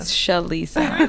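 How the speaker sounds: Shalisa repeated slowly with a laugh; careful repeat. Shown as a demonstration. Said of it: "probably my northern accent".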